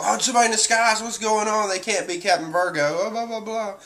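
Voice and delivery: high-pitched mock bewilderment; mock disbelief. G-5 men refusing to believe it's Virgo, mock disbelief. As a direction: imitate confused protesters in a high voice.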